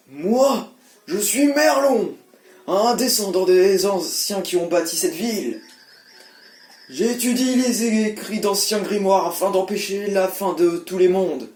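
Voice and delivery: lightly voiced old sage; a hint of an old man. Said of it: "voix de vieux".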